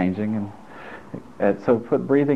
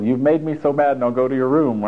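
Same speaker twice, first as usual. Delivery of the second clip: scolding parent; 3 semitones higher than usual. Retold or imitated. Parent sending little child to room, mock scolding. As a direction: lightly act out a fed-up parent. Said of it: "when you were little".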